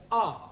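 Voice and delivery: R said as an open "ah"; broad A. Shown as a demonstration. Teacher showing students the third sound, broad "ah". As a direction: say R like the vowel in father. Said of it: "pronounced in three different ways".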